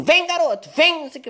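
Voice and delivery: high-pitched imitation of a woman yelling at her son; mock shouting mother. Mother at the buffet yelling at her young son, high mock shout. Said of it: "uma mulher gritando assim".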